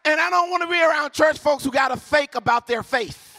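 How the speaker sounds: high, ringing church preacher cadence; rousing call to the congregation; full-force preaching. Real, not acted. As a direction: preach it out, stretching the key words.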